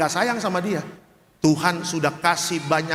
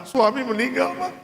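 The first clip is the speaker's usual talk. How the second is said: imitating widow; 8 semitones higher than usual. Voicing the widow.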